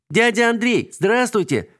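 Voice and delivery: высокий детский выкрик; звонко крикни издалека; радостный крик. A narrator's reading. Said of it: "закричала". (Алинка радостно кричит дяде Андрею)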